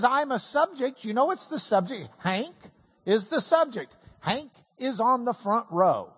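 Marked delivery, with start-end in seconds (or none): 0.0-1.0 talking word sign. Pretend. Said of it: "And if it says".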